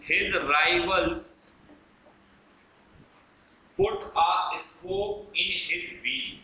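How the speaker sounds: very slow, word by word; spaced-out teacher's dictation. Shown as a demonstration. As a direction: dictate it slowly for note-takers. Dictating an example sentence.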